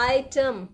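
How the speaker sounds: item sounded out as two beats, eye-tum; teacher carefully dividing item into syllables; syllable demonstration. Shown as a demonstration. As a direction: stress a long "eye" in item, then "tum". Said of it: "I is one syllable and term is another syllable".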